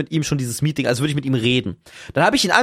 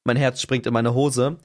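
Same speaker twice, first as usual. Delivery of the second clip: sinking, lower and less drawn-out; lower, subdued repeat; 4 semitones lower, slower than usual. Retold or imitated. Storyteller caught in boxer shorts, lower dismayed delivery. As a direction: let it drop in dismay.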